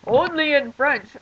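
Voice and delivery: mocking Rotarians. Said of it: "they've been like".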